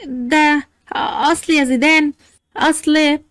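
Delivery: halting, with pauses between words; a touch of nervous stalling; fearful, nervous. Acted. Sara cornered by her husband's questions, nervous and fearful. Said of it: "سارة بخوف قالت بتوتر".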